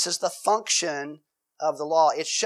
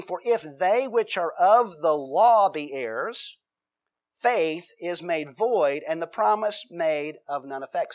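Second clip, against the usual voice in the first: slow, deliberate Bible reading; scripture reading; slower than usual. Acted. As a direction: read each phrase of the verse slowly and solemnly.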